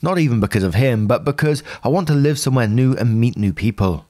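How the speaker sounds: evenly paced read-aloud of a personal post; story narration. A narrator's reading. Narrator reading out someone's post about a troubled relationship, story narration. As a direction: read it out as a first-person account.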